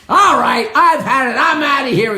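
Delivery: mock exasperation. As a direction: storm off as the cheated customer. Customer gives up and storms out.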